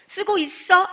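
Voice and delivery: bright loud check-in. Retold or imitated. Checking call to friend.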